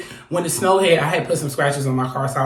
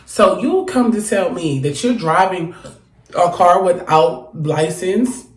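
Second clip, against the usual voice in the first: incredulous slow outrage. Real, not acted. Outraged at driver without license.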